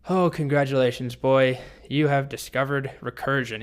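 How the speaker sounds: mock congratulations, talking down to a boy; condescending. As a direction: play a patronizing dragon, stressing the first words. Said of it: "He's very condescending".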